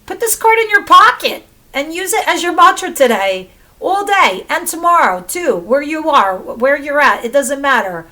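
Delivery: high, loud, urgent rallying; emphatic rallying. Real, not acted. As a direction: drive it home like a pep talk. Rallying viewers to use mantra.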